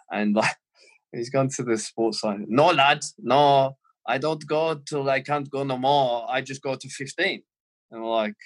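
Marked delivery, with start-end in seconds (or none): 2.5-7.4 mock Scouse German accent, stubborn. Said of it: "he's got this weird Scouse German accent going on".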